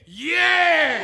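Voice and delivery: short high shouted answer; team yell back. Acted. Teammates yelling back to the captain, loud and high. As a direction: bark it back like the whole team.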